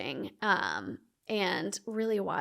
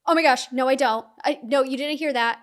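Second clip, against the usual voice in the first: louder, alarmed denial; retold panic; 4 semitones higher, 7 dB louder, faster than usual. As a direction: take it back fast, startled. Horrified retraction of her own thought.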